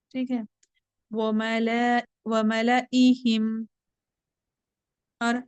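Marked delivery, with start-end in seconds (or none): 1.1-3.7 slow, drawn-out tajweed recitation; Quran recitation. Shown as a demonstration. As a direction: chant the verse slowly with care. Teacher recites word. (धीमी तजवीद वाली तिलावत)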